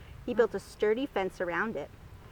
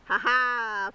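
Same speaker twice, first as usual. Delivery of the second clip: laughing; 4 dB louder than usual. Acted. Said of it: "Findus laughed".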